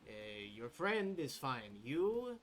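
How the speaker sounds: lightly voiced elder, jabbing at You; a hint of a stern old keeper assigning work; old woman giving orders. Lawi orders Gaang to field work.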